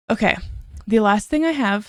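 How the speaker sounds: short of breath while talking. Real, not acted. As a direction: pregnant and out of breath. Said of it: "sorry, I'm so out of breath".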